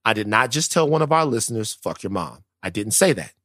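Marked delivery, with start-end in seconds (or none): 1.7-2.4 muted quote. Retold or imitated. Denies telling listener this.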